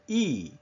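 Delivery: E with mouth spread wide; long, spread E vowel; held E. Shown as a demonstration. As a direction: demonstrate a pure ee. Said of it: "your mouth is out here".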